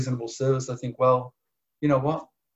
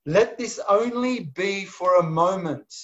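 read slowly; 4 semitones higher than usual. Shown as a demonstration. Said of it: "listen to what he once said".

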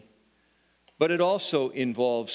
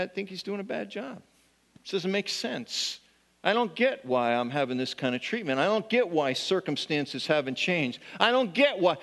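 grumbling complaint; 2 semitones higher than usual. Retold or imitated. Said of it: "we grumble".

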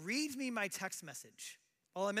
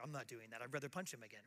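put-on sulky kid retort; 9 semitones lower, 9 dB quieter, faster than usual. Son refusing to pray.

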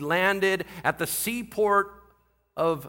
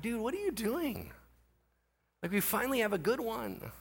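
lightly voiced higher, softer pleading; baffled protest; 7 semitones higher, 6 dB quieter than usual. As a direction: mimic a baffled group protesting, softly and high. Voicing the baffled Jews' protest.

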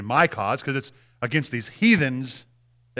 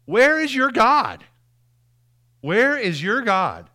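slow mocking taunt; 7 semitones higher, 4 dB louder, slower than usual. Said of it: "people say to me".

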